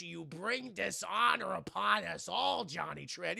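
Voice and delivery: slow, drawn-out mock Mushu decree; Mushu impression. Father disowning Johnny, as a slow mock Mushu. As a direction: stretch it like a cartoon dragon's proclamation. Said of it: "He basically becomes fucking Mushu".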